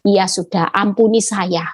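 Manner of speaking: retold meek giving-in, low-pitched; low, submissive plea for forgiveness; humble apology. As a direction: drop low after the mimicked rant. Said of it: "saya selalu merendahkan hati".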